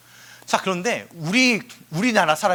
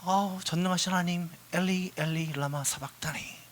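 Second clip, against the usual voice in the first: mock formal prayer; 6 dB quieter than usual. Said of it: "이랬을까요".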